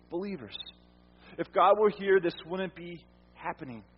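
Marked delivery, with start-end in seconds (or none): 1.4-3.8 doubting believer. Retold or imitated.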